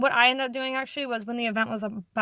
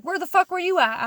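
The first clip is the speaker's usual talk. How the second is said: imitating an irate boss, higher and louder; mock-angry demand in a raised voice; irritated boss; 6 semitones higher, 5 dB louder than usual. Boss confronts new worker returning late, irritated.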